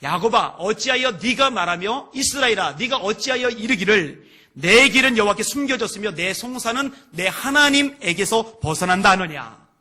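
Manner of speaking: loud, declaimed verse of lament; lament from scripture. Acted. Preacher reading Israel's complaint to God, declaimed lament. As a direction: project the grievance, drawing out the close. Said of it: "이렇게 탄식을 합니다".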